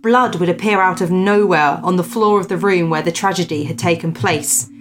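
measured storyteller's read-aloud; story narration. Acted. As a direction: read out an old ghost report with deliberate emphasis. Reads a ghost story aloud.

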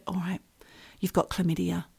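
imitating a receptionist giving in, softly; conspiratorial. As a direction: let the secret out quietly. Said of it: "the way she said it was really conspiratorial".

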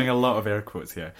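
talking through a laugh; amused at herself, laughing the words out. Real, not acted. Laughing at her own air quotes to her co-host.

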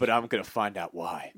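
a hint of slow hero drama; lightly voiced action hero. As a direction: deliver a hero's cliffhanger line, drawn out. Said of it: "the final line that he says".

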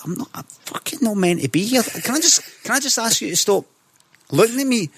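high-pitched, affronted plea; mock indignation. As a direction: act mortified at being lumped in. Acted indignant reply to fellow passenger.

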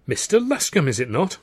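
feigned surprise. Acted. Feigned greeting to stall the brother.

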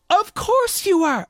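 high, slow, embarrassed "Of course you are"; sheepish realisation. Retold or imitated. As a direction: drag it out in mortified surprise. Embarrassed realisation of his mistake.

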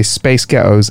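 "Space Ghettos" in an American accent. Shown as a demonstration. Showing the co-host the trick, American accent. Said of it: "in an American accent".

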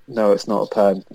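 a light, mocking Scouse accent, barely put on; lazy impression of a Scouse pundit in a Scouse accent; dodgy Scouse accent. Mocking a TV pundit's replay verdict in a light Scouse accent. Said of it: "in his dodgy Scouse accent going".

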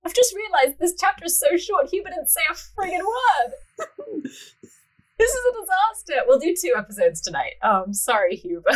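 high-pitched, mock-anguished outburst; comic dismay. Real, not acted. Reader apologising to co-host left out of the chapter, dismayed. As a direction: wail it as if it's a disaster.

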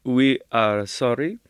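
lightly done mock Dracula-style accent; stiff, halting po-faced apology in a put-on accent; Bela Lugosi. Retelling the designers' apology, mock Lugosi accent. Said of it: "the only accent I can do is Bela Lugosi".

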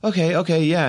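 high, strained-polite agreement; holding it together. Retold or imitated. Upset actor answers the man recasting him, holding it together. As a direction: agree politely while keeping upset under wraps. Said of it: "trying to keep it all together".

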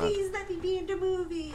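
high, loud, crying plea; hammed-up sobbing whine; whiny begging dad. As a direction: beg like a spoiled dad desperate for a part. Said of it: "his dad said".

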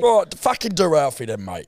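mock British gangster accent; Alfie. Setting a line for the parrot, British gangster accent. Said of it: "I can impersonate it flawlessly".

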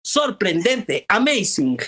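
put-on stilted old movie melodrama. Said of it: "sobreactuado a propósito".

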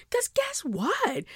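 slow, conspiratorial whisper. Real, not acted. Host sets up her big point for listeners, slow secret whisper.

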